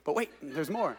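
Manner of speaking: softly imitating an infomercial pitch; quietly mock the ad line; infomercial quote. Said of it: "That sounded like an infomercial".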